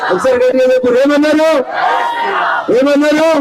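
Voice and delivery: projected rally voice, pausing for the crowd's answer; rousing rally questions. Real, not acted. (జనాన్ని ఉత్సాహపరిచే సభా ప్రశ్నలు)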